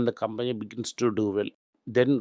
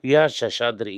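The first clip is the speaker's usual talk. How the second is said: name called out louder, proudly; name said big; 5 dB louder than usual. Real, not acted. Advisor stressing a trusted promoter's name to the interviewer, said louder. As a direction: boom the banker's name so it lands. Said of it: "ഈ പേരിനെ തന്നെ ഞാൻ വലുതായിട്ട് പറഞ്ഞു".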